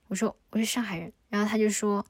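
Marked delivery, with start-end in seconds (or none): 0.5-1.1 cold and distant. Retold or imitated. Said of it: "然后还说得非常冷漠".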